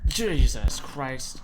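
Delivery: slow, loud startled gasp of words; jolted by a sudden scare. Real, not acted. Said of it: "scared the absolute life out of me".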